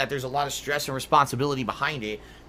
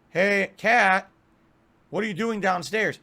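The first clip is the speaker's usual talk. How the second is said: louder, higher call down the stairs; 5 semitones higher, 4 dB louder, slower than usual. Retold or imitated. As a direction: call to your wife downstairs. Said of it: "and I say".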